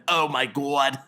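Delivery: lightly voiced wrecked-throat old lady; a hint of a worn-out smoker's croak; old Jewish smoking woman. Host shows how his voice sounds after the impression, lightly croaky. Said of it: "I would sound like this for three days after, like a, like a, you know, old Jewish smoking woman".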